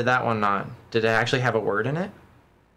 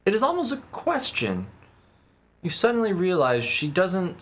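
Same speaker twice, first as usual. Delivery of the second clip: calm storybook reading voice; story narration. Acted. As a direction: read it like a novel. Reads game narration aloud.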